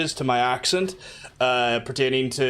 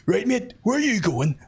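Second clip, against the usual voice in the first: higher mock Belfast cabbie; Belfast taxi driver accent; 7 semitones higher than usual. Taxi man asking a passenger his destination, broad Belfast accent. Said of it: "that sounds like the taxi man accent".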